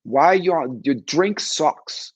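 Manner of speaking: hammed-up East Coast Italian barfly complaining; mock East Coast accent, teasing a friend at the bar. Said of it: "you can hear her talking".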